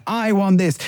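the urge demanding what it wants; craving inner voice. Retold or imitated. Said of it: "it says the first person, "I".

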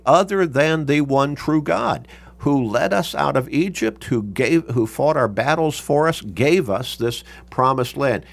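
firm retold declaration, leaning on key words; emphatic statement. People recalling God who led them out, emphatic. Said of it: "The people are making an emphatic statement".

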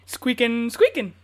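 squeaky rubber duck chatter; Bucky squirrel squeak. Pretend. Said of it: "so do a little squeak".

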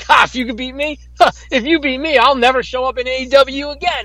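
lightly mocking, cocky boast; cocky taunt. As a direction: imitate a wrestler's cocky challenge. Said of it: "like, cocky".

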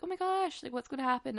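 high, giddy gossip gasp; excited squeal. Retold or imitated. Girls hyping her up before the coffee date, giddy and high.

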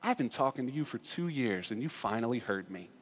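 softly imitated tender reply; Mister Rogers. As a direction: drop to a very quiet, intimate voice. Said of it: "he looks at him and goes".

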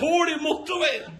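high, jeering mock shout, with laughter; mocking local. Locals mock the Drammen man, high jeering call. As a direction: jeer the old joke at him. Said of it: "Og man".

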